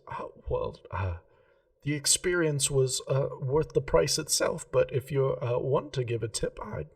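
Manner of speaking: a hint of a prim gem-shop lady, keen on geometry; Remy the jeweller. Remy coyly accepts a tip.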